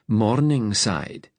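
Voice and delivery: Morningside stretched out very slowly, every syllable long; drawn-out name. Acted. Ben mocking a posh Edinburgh district, drawing out Morningside slowly. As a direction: drag out Morningside slowly and pointedly. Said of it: "Ben drew out the name".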